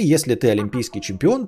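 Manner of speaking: ordinary talk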